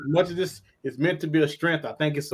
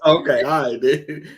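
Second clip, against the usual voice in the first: bass in voice; 4 dB louder than usual. Real, not acted. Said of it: "He got a little bass in his voice".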